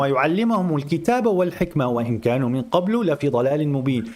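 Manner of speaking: fast, chanted Quranic recitation. Shown as a demonstration. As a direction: recite the verse in a rapid chant. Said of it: "I'm reading the Quran".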